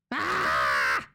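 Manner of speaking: short, rough yell; tense scream. Real, not acted. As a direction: let out a tense shout. Screams at tense game moment.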